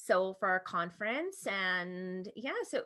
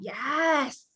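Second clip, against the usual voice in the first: triumphant yes; 6 semitones higher, 4 dB louder than usual. Retold or imitated. Mom cheering inside.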